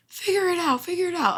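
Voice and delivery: high, put-on mom voice brushing her off; mom's dismissive voice. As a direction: imitate mom waving you away. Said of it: "My mom is like".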